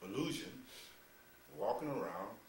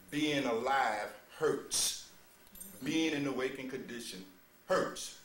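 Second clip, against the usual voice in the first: slow, heavy and louder, each word weighted; slow grave emphasis; 5 dB louder, slower than usual. Acted. Preacher to disciples, slow and louder with grave weight. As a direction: lay down the hard truth, slowly.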